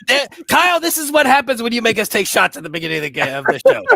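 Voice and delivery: high, loud talk through laughter; laughing hard. Real, not acted. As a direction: giggly squeal while blaming Kyle. Still laughing after queef joke.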